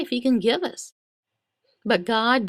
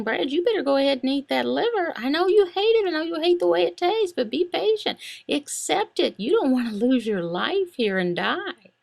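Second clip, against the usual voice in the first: higher, fast and pressing; mind pleading; 5 semitones higher than usual. Acted. His mind begging him to obey the gunman, higher and urgent. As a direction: urge him to give in. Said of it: "My mind is saying".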